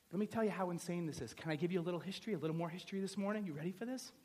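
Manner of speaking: ordinary delivery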